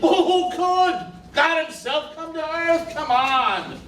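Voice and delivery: high-pitched, incredulous protest; exasperated outburst. Acted. Juror scoffing at another's excuse, exasperated and incredulous. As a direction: burst out in disbelief at the argument.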